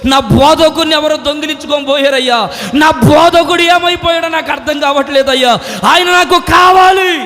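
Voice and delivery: crying out for her lost teacher, ending in a loud wail; grieving cry that swells to a shout; wailing lament. Acted. Mary at the tomb wails for her teacher.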